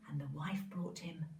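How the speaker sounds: soft storytelling whisper; whispered narration. A narrator's reading. Narrator whispering to the children, hushed. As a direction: hush it for suspense. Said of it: "storyteller drops to whisper".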